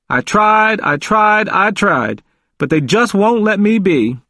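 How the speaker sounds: high, repeated plaintive protest; mournful. A narrator's reading. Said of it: "His voice was mournful".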